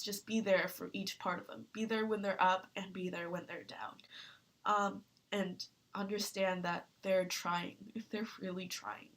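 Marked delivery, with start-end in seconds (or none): 1.7-9.1 choked up. Real, not acted. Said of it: "I'm getting a bit emotional".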